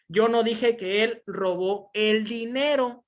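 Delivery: "dinero" marcado al final, despacio; énfasis en DINERO. Shown as a demonstration. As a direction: subraya "dinero" con caída. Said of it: "el énfasis que le estoy dando". (acento enfático en "dinero")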